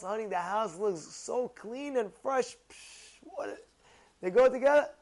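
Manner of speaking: ordinary talk, nothing marked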